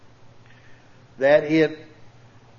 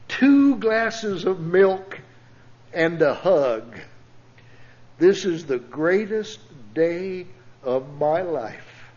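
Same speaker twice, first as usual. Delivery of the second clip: put-on awed boy; 2 semitones higher, slower than usual. Boy's tearful words quoted.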